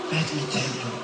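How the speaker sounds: hushed, confiding father's voice; dad's accent, very soft and confidential; imitating dad's accent. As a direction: let a secret out very softly, mimicking dad. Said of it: "In his accent".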